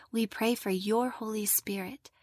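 hushed whisper. Acted. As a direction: breathe the words softly. Whispered line within prayer.

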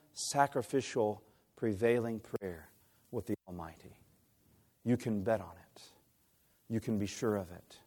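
almost a whisper to the congregation, sincere; hushed preaching. Real, not acted. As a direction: drop to a soft, low, earnest hush. Preacher drops to hush.

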